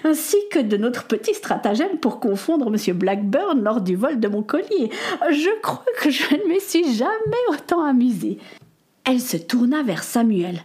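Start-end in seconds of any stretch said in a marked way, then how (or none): 0.0-8.4 put-on an elegant older lady, amused, slightly higher; lightly voiced society lady who laughs mid-line; a hint of an amused grand dame.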